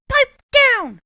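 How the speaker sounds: high, loud barked orders; stern witch teacher. Acted. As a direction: whip them into shape. Swamp shouting.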